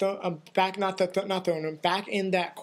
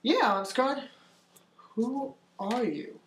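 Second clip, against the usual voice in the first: Artemis; 4 semitones higher, slower than usual. Acted. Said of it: "Ansgar, and says".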